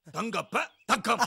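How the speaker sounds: தங்கப்ப தக்கம் drawn out slowly, split after ப; wrong word break. Acted. Stubborn man announces the film title, slow and wrongly split. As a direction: read "தங்கப்ப" and "தக்கம்" as two slow words. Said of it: "அப்படி படிக்க கூடாது".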